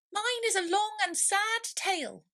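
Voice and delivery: very high, plaintive mouse; a sad little squeak; sighing mouse. A narrator's reading. Mouse telling Alice its tale, high plaintive sigh. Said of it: "turning to Alice and sighing".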